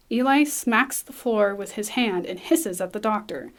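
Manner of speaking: normal talking voice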